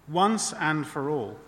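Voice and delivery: "once and for all" slowly and deliberately; emphatic. Real, not acted. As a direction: stretch out "once and for all" to drive it home. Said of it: "I want to emphasize this".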